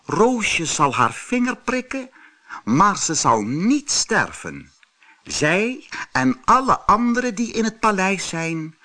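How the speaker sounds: calm, high fairy voice. Acted. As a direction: soothe them, gentle good fairy. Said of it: "Ze zei kalm".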